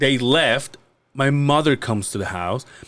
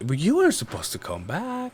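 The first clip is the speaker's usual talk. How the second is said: higher-pitched plaintive objection; mock complaint, pitched up; retold inner protest; 5 semitones higher, 4 dB quieter than usual. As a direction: protest like a caught kid. Whining inner protest to mom.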